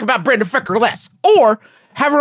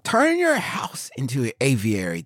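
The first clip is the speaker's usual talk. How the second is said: soft unvoiced whisper; 7 semitones lower, 7 dB quieter than usual. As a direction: murmur it like a secret. Conspiratorial aside continues.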